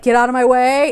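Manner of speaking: rude subtext. Retold or imitated. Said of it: "it's basically like".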